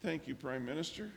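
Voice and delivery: calm, settled reply. Retold or imitated. Assistant thanks the prime minister, now calm. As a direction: answer as if the worry has gone. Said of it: "Maria calms down and says".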